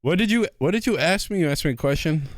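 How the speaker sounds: high, quavering grandpa voice; very old man. Acted. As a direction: play a confused old grandpa. Grandpa voice just named.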